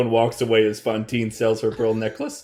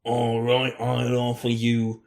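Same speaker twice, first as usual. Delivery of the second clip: lightly voiced haggling crone, slow and low-key; a touch of a stingy old hag; 3 semitones lower than usual. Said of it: "the crone's mouth".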